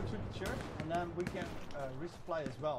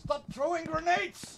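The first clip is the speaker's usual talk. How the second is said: slow loud yell; 13 semitones higher, 9 dB louder, slower than usual. Real, not acted. Scolding teammate.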